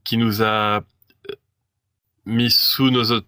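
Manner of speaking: reading with a lisp, s turned to f; lisping through an old decree. Acted. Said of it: "je prononce le S avec un accent de merde comme si j'avais un cheveu".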